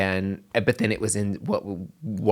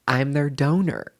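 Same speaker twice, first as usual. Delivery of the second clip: laughing; 5 semitones higher, slower than usual. Real, not acted. Announcing she is the donor.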